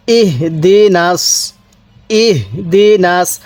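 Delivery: ইহদিনাস with a light, audible h; careful tajweed demo. Shown as a demonstration. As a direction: let breath sound on the h of ইহদিনাস. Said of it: "এই হাটা উচ্চারণের সময় মুখ দিয়ে হালকা আওয়াজ করব".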